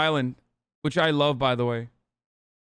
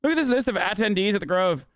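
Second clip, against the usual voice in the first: mock Irish brogue, pitched up; Irish accent. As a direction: ham up an Irish accent while reading chat. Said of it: "I haven't stopped doing the accent".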